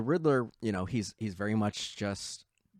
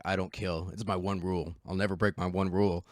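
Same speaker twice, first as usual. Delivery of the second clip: Christian Bale's Batman; 3 semitones lower than usual. Retold or imitated. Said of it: "Christian Bale's Batman's constantly like".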